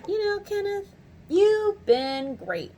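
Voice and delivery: high-pitched, drawn-out praise; retold gushing praise. Customer praising a call center worker, gushing.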